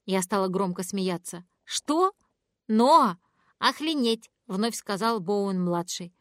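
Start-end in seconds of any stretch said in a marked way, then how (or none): 1.6-4.3 shocked. Acted. Child swears again, shocked reaction.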